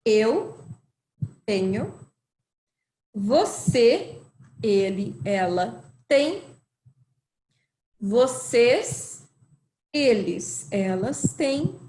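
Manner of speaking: eu, pause, then tenho said slowly apart; word by word. Shown as a demonstration.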